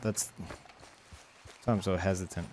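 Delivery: soft, slow, hushed; hushed aside. Real, not acted. Hunter whispers to chat while aiming, hushed. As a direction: hold your breath while aiming. Quiet careful aim.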